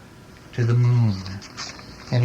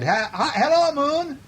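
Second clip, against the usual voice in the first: mild storybook shout, raised pitch; shouted greeting; 12 semitones higher than usual. A narrator's reading. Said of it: "he shouted".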